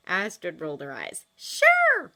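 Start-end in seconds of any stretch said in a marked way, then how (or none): 1.4-2.1 high sarcastic "Sure". Acted. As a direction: roll your eyes at him. Astrid rolls her eyes.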